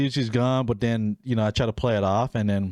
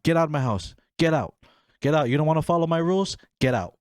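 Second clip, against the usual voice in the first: higher, short bursts of mock ordering; imitated angry mom; 4 semitones higher, much faster than usual. Mom kicking daughter out, acted anger. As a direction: order them out like a fed-up parent.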